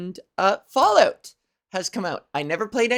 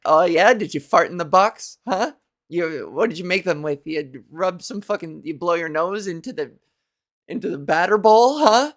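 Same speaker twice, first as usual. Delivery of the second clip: rip into him with contempt; mocking crew; 2 semitones lower than usual. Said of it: "And they're like".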